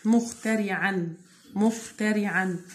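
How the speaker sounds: مخترعا said slowly, syllable by syllable; slow teacher demo. Shown as a demonstration. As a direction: spell it out slowly by sound. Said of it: "syllable demo".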